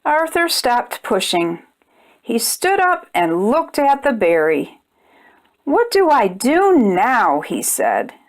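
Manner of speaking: gentle storybook narration for little ones; measured picture-book read-aloud; reading to children. A narrator's reading. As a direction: read it like bedtime story time.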